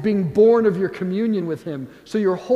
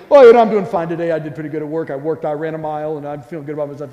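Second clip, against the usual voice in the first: guarded posturing; 4 semitones lower, 5 dB louder, much faster than usual. Acted. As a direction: put up a cheerful front, then rattle off achievements. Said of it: "have a wall up and posture".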